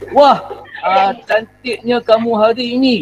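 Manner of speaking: mildly delighted teacher's demo; happy exclamation. Shown as a demonstration. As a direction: model cheerful admiration for the class. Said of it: "intonasi kamu pun intonasi yang gembira". (contoh seruan gembira)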